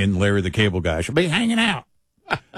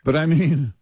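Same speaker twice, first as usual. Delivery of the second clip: ordinary talk, nothing marked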